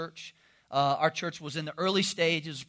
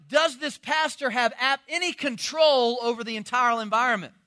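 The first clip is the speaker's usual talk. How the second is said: alarmed newcomer; 5 semitones higher, 4 dB louder than usual. Retold or imitated. Voices panicked newcomers.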